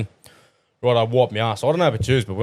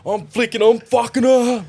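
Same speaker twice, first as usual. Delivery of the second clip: laughing; 11 semitones higher than usual. Real, not acted. Still laughing at story.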